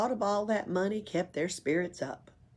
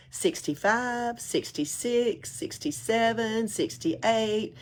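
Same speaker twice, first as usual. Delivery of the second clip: slow counting; 5 semitones higher, slower than usual. Acted. Pippi slowly counting gold.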